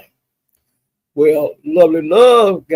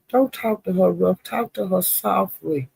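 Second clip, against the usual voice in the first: a touch softer, slowed down on talk to her softly; softly coaxing; 3 semitones higher, 6 dB quieter, slower than usual. Retold or imitated. A panelist urging Lemon to speak gently, soft and slow. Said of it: "she was saying".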